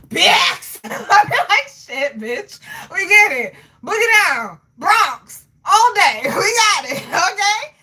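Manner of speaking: loud, high, laughing Bronx swagger; laughing parody of a loud Bronx crowd; mock loud New Yorker. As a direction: shout it like a hyped New Yorker, cracking up. Mocking aggressive New Yorkers, laughing.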